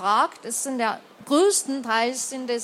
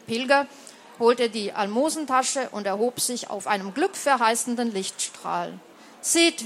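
ruhige Erzählstimme beim Vorlesen; Geschichte vorlesen. A narrator's reading. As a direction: trag es wie eine alte Legende vor. Liest aus Romanübersetzung vor. (vorlesende Erzählerin)

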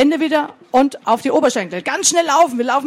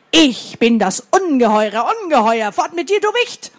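deep distorted monster roar. Acted. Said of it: "stieß einen furchtbaren Schrei aus".

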